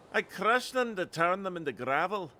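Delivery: put-on Scottish accent. Lookout explaining stones to a visitor, Scottish accent. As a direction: answer as an eccentric Scottish lookout. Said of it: "if my Scottish accent is bad".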